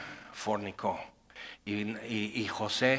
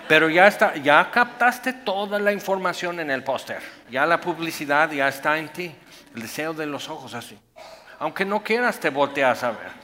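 louder, punchy, exasperated; animated rant; 3 semitones higher, 6 dB louder than usual. Real, not acted. Preacher rants to the congregation about ads, excited. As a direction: drive the point home with energy.

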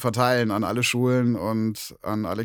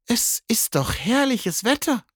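high whispered cat voice; whispering cat. Acted. Cat whispers to the bear about the weather. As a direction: breathe it like a secret.

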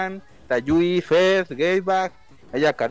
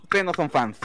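smug superfan; 5 semitones higher than usual. Acted. Superfan persona taunting.

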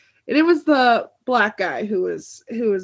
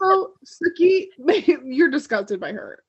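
higher, breaking into giggles; laughing through Eric's order; 3 semitones higher than usual. Retold or imitated. Friend retelling a vampire's order, laughing. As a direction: quote Eric while cracking up.

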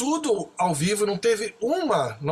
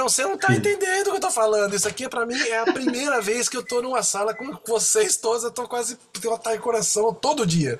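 overwhelmed insisting; 4 semitones higher than usual. Retold or imitated.

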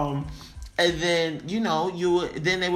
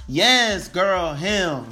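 put-on gossiping girlfriends; 4 semitones higher, 8 dB louder, much slower than usual. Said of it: "They're like".

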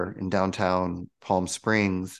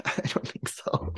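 laughing; 6 dB quieter than usual. Retold or imitated. Laughing off the channel message.

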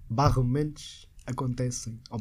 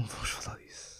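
whisper; 16 dB quieter than usual. Real, not acted. Dreading being finalists.

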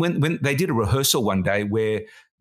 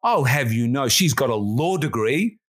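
indignant producer; slower than usual. Retold or imitated. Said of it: "And she said".

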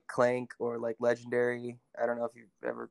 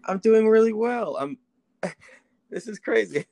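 over the phone; 2 semitones higher than usual. Real, not acted. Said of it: "put you on speakerphone".

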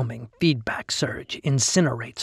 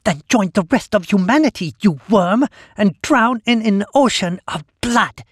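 high, loud cruel monster cry; wicked monster voice; 8 semitones higher, 6 dB louder than usual. Acted. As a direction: revel in his suffering. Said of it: "a wicked monster reveling".

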